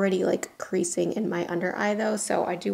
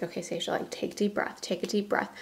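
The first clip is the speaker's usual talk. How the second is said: softer, calming husband coaching her to breathe; soothing voice, quieter, talking someone down; 5 dB quieter, faster than usual. Retold or imitated. Husband calming his panicking wife, softly soothing. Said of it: "my husband is always like".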